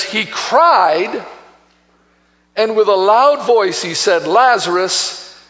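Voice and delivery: "cried" drawn out slowly for emphasis; stress on cried. Shown as a demonstration. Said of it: "I'm putting the emphasis on crying, on loudness".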